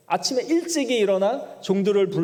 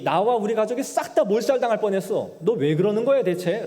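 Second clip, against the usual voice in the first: a raised, indignant king scolding; indignant rebuke; 4 semitones higher than usual. Retold or imitated. Abimelech rebuking Abraham for his lie, indignant raised voice. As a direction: hold him to account, voice lifted a little. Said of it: "책망받고 혼쭐나고 있는".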